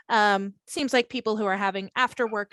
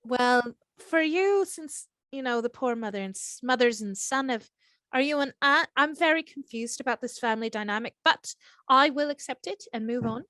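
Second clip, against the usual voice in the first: put-on Irish accent. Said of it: "sounding like Aisling Bea".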